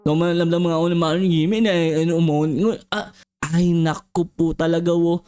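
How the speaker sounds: lightly voiced low bee grumbling; a cranky giant bee, slurring its words; grumpy bee. Giant bee grumbling at the little kid, low voice.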